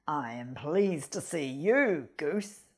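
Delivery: low, whispered sly greeting; sly fox. Acted. Fox whispers slyly to the goose in his bag. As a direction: purr it like a pleased predator. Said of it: "said the fox".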